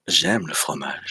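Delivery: low, seductive French; sexy voice. Retold or imitated. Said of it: "in a kind of sexy voice".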